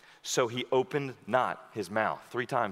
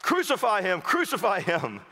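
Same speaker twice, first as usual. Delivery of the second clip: mild mock chant; mock crowd cry; 5 semitones higher than usual. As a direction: cry out like the angry priests. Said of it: "they cried out".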